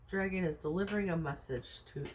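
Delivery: talking through hiccups; speaking with the hiccups. Real, not acted. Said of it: "oh, excuse me, I have the hiccups".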